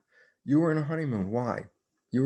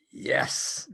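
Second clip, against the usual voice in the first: whispered yes; 4 semitones higher than usual. Retold or imitated. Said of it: "I go".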